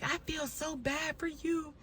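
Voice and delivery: high, soft, crying words; imitating her mother sobbing on the phone; imitating hysterical mom. Retelling her hysterical mom's sobbing words, high and soft. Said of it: "she's like".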